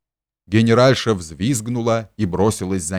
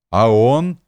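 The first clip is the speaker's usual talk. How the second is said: squealed; 2 semitones higher, 5 dB louder than usual. A narrator's reading. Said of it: "визжал Фома".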